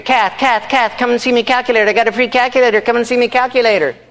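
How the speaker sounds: high-pitched, hurried Irish husband calling out; mock excited scream. Irish friend running upstairs to his wife Kath, mock screaming. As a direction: imitate an excited man hollering for his wife. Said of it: "And he's screaming".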